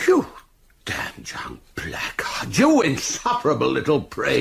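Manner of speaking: outraged. Acted. Chief constable insulted by a defiant boy, outraged.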